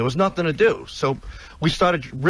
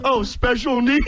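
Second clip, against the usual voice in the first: slow, higher, giggling through the words; laughing through the quote; 5 semitones higher than usual. Retold or imitated. Retelling the security line to Howard, laughing. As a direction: crack up while quoting the guard.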